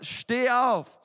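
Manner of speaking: loud, punchy command. Shown as a demonstration. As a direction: bark it out with authority. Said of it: "Hey, sag mal gerade".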